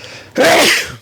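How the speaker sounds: a short, high staged sneeze; a sudden demo sneeze, pitched high; fake sneeze. Shown as a demonstration. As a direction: act out a quick sneeze. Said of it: "I sneezed".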